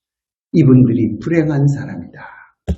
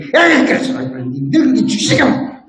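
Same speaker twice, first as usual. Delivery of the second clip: teasing wife; 7 semitones higher, slower than usual. Retold or imitated. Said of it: "우리 집사람이".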